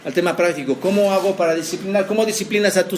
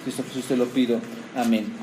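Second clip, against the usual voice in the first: low-pitched, subdued public prayer; 5 semitones lower, 4 dB quieter than usual. Real, not acted. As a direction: pray it lower, settling softly toward the amen. Closes an opening prayer.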